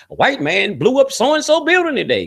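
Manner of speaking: mock newscaster announcing it brightly and high; TV news report. Man retelling a TV bulletin, lightly mimicking the newscaster. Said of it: "came on T V and say".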